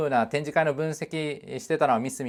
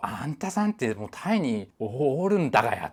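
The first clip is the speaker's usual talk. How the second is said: a light Nagoya-dialect jab, lightly voiced; 2 semitones lower, 4 dB quieter than usual. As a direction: tease in Nagoya dialect, understated. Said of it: "名古屋弁で言わさせてもらいますわ".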